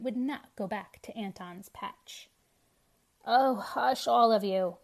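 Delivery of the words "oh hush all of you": loud hush. A narrator's reading. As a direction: silence the crowd sharply. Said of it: "cried the witch".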